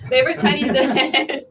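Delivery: asked through laughter; amused question with a laugh. Real, not acted. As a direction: laugh as you ask it. Laughing while rephrasing question.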